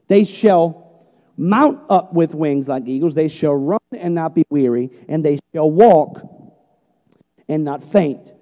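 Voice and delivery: slow, weighty preaching of the verse; scripture reading. Acted. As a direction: draw every phrase out with power. Reads scripture with force.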